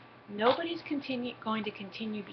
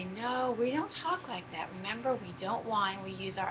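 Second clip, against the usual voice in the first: plastic smile. Shown as a demonstration. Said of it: "put on my plastic smile".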